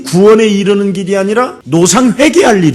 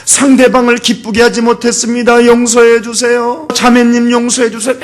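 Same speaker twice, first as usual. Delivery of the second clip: slightly raised, chanting mock confession; imitated ritual apology; 6 semitones higher, 4 dB louder than usual. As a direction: lightly mimic a routine plea for forgiveness. Mimics ritual apologies at meetings. (형식적인 사과를 살짝 흉내 내는 말투)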